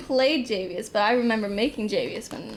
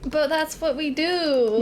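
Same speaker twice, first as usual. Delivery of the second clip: slow, drawn-out catchphrase; 4 semitones higher, much slower than usual. Acted. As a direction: say it slowly like a motto. Catchphrase said together.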